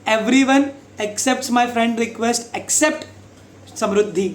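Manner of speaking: very slow, stretched words; slow example sentence. Shown as a demonstration. Teacher slowly modelling accept and except. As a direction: drag it out to show accept and except. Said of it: "except Farhan".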